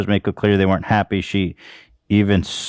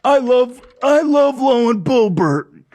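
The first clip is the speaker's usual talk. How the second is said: high put-on voice of a gushing redneck fan; mock redneck fan; 3 dB louder, slower than usual. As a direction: gush like a dim-witted hick supporter. Mocking a Boebert fan.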